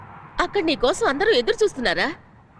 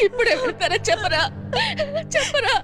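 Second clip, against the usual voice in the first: high, urgent plea through sobs; frightened tearful urging; tearful pleading; 7 semitones higher than usual. Acted. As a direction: beg him, crying. Mother begs son amid crying.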